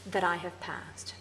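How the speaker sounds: that I have passed, slow and falling; slow, settled short line; slow verse fragment. Shown as a demonstration. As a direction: let that I have passed land slowly. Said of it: "this is the one that's really interesting".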